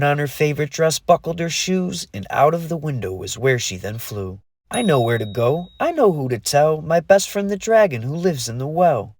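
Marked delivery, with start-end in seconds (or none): 4.7-9.1 eager. Acted. Fairy eager to tell friend.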